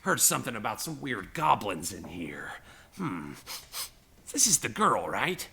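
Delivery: a hint of puzzled, brash goblin; lightly voiced brash goblin. Goblin checking whether this is the girl, lightly voiced puzzlement.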